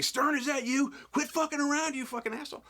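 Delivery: high, exasperated mock crew voice; mock irritated crew. Crew suspecting Stern under the mask, high mock irritation. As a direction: act out the crew calling him out, fed up. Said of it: "they were starting to say".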